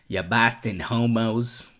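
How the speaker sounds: drawn-out Boston accent attempt; movie Boston accent. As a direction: stretch out a rough Boston accent. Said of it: "That's from, uh, The Departed".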